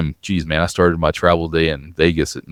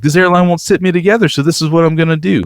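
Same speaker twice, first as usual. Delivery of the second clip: grandmother ranting; 10 semitones higher, faster than usual. Retold or imitated. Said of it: "she starts going into".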